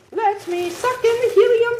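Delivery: squeaky high helium voice. Real, not acted. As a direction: talk after a gulp of helium. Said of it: "I'm talking with the helium voice".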